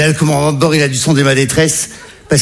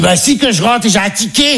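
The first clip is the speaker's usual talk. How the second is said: higher, protesting mum; put-on maternal protest; mother's voice; 4 semitones higher than usual. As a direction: impersonate an uncomprehending mother insisting.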